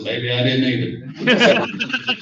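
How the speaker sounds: put-on deadpan old teacher. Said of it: "looked me straight in the eyes and said".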